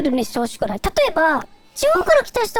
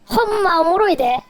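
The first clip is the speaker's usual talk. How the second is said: Kansai dialect; 3 semitones lower than usual. Pretend. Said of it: "関西弁好きだから".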